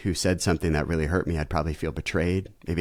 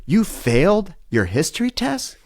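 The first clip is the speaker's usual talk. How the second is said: high, slow disbelieving question; dad stunned by the failed test; shocked dad; 12 semitones higher, 4 dB louder, slower than usual. Retold or imitated. Dad reacting to bad news.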